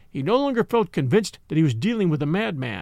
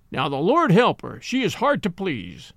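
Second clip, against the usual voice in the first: sneering. Acted. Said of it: "sneered the old gentleman".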